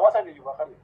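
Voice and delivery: emphatic comeback. Real, not acted. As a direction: hit it harder the second time. Repeats the retort louder.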